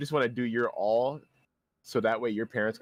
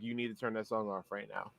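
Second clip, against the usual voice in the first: urgent plea; 3 semitones lower, 10 dB quieter, faster than usual. Retold or imitated. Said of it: "I'm like".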